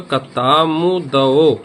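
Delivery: कतामुदओ drawn out as a chant-like memory word; mnemonic demo. Shown as a demonstration. Teacher showing students how to say the memory trick, drawn out. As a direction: stretch the vowels of कतामुदओ. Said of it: "इस तरह से जब हम इसको बोलेंगे".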